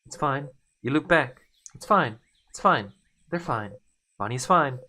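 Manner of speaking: panicked self-reassurance. Acted. Hero repeating it's fine to calm down. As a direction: talk yourself down in panic.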